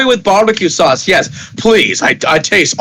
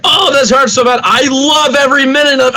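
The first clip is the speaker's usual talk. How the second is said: higher gleeful cry of pleasurable pain; masochistic glee; 6 semitones higher than usual. Acted. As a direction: squeal with delight at the pain. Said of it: "he's like".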